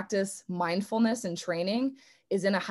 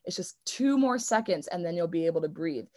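calming self-talk. Retold or imitated. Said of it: "you tell your brain".

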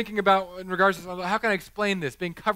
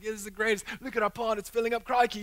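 put-on Australian accent; 4 semitones higher, faster than usual. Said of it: "I did this Australian accent".

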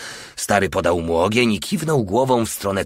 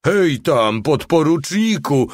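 much higher, slow, louder jeering call; roaring with laughter; 7 semitones higher, 4 dB louder, slower than usual. A narrator's reading. The little one hooting at the lieutenant, roaring with laughter. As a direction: holler at him through laughter. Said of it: "ryczał ze śmiechu mały".

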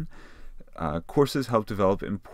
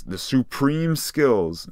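mock trying-out; 6 semitones higher, 5 dB louder, much slower than usual. Shown as a demonstration. Teacher tries out a wrong option.

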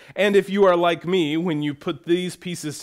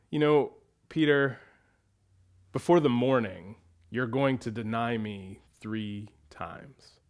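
softer, lower sad warning; gentle Jesus; 4 semitones lower, 4 dB quieter than usual. Retold or imitated. Jesus answering Peter's boast, soft low warning. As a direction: tell him kindly what he will do. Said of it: "and he goes".

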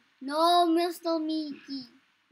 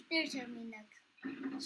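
slow, hushed whisper; 6 semitones lower, 12 dB quieter, slower than usual. Real, not acted. Gamer spotting the creature, slow whisper. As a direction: breathe it out slowly, hiding.

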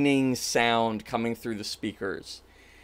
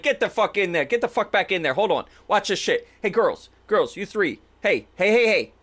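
higher, insistent commands; bossy showman orders; 5 semitones higher, faster than usual. Acted. Jimmy orders his dancers into the box, bossy. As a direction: herd the performers along impatiently.

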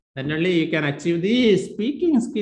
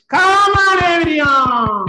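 very high, loud, stretched-out call; rousing shout; 12 semitones higher, 8 dB louder, slower than usual. Real, not acted. Teacher calling on everyone in the live class, rousing shout. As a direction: holler it out to rouse the whole class.

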